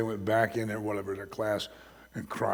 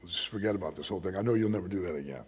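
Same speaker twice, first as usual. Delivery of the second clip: gentle father. Retold or imitated. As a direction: let her off gently. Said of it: "Came back in and said".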